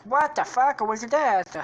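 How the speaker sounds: high, slow, loud bafflement; Luigi. Acted. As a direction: ask slowly in a high put-on voice. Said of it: "he's like".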